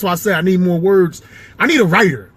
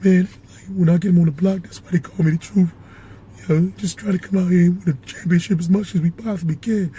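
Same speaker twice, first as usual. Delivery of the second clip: winded athlete after a game, words dropping out; Paul Pierce. Acted. Player interviewed after game, out-of-breath Paul Pierce voice. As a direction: voice going in and out. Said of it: "talk like that when he out of breath".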